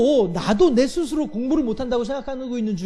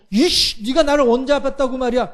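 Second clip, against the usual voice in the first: mild mock outburst. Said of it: "이렇게 싸우려고".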